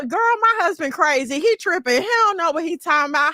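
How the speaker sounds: lightly acted scoffing wife; gossiping wife. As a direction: dismiss him to your girlfriends. Wife mocks husband to friends.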